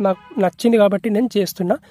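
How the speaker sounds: ordinary talk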